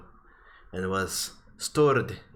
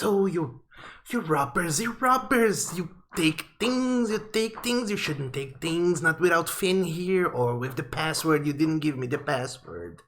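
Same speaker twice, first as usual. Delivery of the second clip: high, screechy-feeling owl; 7 semitones higher than usual. Acted. Owl scolds the party for taking things, in a high voice. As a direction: squawk it like an accusing owl.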